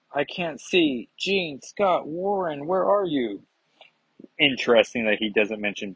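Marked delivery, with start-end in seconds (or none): 0.1-3.4 higher-pitched calling out for friends; lightly acted alarm; mock distress. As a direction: call out as if suddenly blinded. Acted hero losing sight, calls friends.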